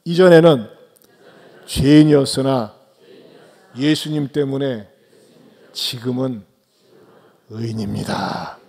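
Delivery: phrase by phrase, slowing and fading to the end; a slow call for the congregation to echo back; slow lead-in for repeating. Shown as a demonstration. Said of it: "한번 따라서 하실까요".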